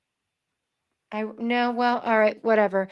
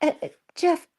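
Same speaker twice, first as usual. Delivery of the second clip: put-on South African accent; 3 dB quieter than usual. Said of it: "The South African accent".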